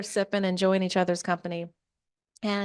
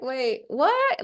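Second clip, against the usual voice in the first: acted puzzled double-take, pitched up; mock confusion; 5 semitones higher than usual. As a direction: question it as a baffled friend. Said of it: "she's still kinda like".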